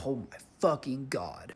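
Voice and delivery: slow, breath-heavy exclamation; drawn-out, half-whispered disbelief; overwhelmed relief. Retold or imitated. Driver spared an insurance claim, overwhelmed breathy relief.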